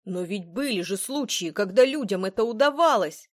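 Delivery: insisting. A narrator's reading. Patrick refusing to accept there is no cure, insisting. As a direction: press the point hard. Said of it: "настаивал Патрик".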